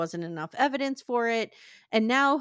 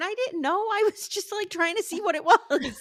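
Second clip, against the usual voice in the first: weeping, tearful, pleading crying voice; 9 semitones higher than usual. Retelling what a man on the witness stand said, imitating someone crying. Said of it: "crying saying".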